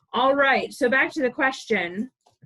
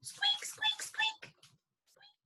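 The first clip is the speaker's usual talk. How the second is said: very high, tiny squeaks; squeaking critters; 11 dB quieter, slower than usual. Acted. Reading the critter family's squeaks, tiny and high. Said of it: "they're all saying".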